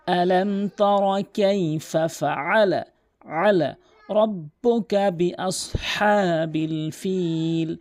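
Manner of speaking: slow, drawn-out melodic tajweed chant; Quran recitation. Shown as a demonstration. Teacher reciting the verse for students, slow melodic chant. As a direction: chant each word long and measured.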